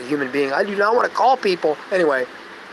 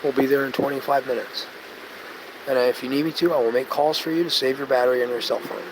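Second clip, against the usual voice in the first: softer, gentle customer-service tone; calm reassuring phone voice; 3 semitones lower, 5 dB quieter than usual. Retold or imitated. Reassuring a stranded driver over the phone, soft and calm. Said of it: "I'd hear my voice speaking like this".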